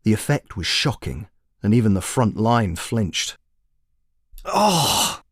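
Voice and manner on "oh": high, whiny wizard's complaint; complaining. Acted. Wizard grumbling at the sudden sun, high and whiny. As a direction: squeal it like a grumpy old wizard. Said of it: "complained the wizard".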